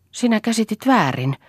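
high-pitched frightened plea; a startled, scared protest. A narrator's reading. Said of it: "sanoi Lea peloissaan".

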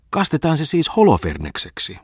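mock the sputtering boat. A narrator's reading. Tommola jeers at the broken motor, high mocking tease. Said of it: "ilkkui oiva Tommola".

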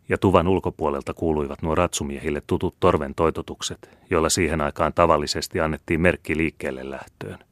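usual speaking voice

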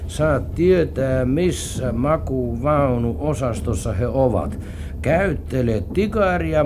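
slow, deliberate letter reading; reading a letter aloud. Acted. Man reads a found letter to partner, deliberately. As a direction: read it out word by word, slowly. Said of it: "Katsotaanpas, mitä siinä sanotaan".

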